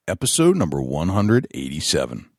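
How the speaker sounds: announcer read of title and sponsors; measured, emphatic sponsor billboard; podcast announcer. Acted. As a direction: punch out each billing like a show intro. Reads show title and sponsors.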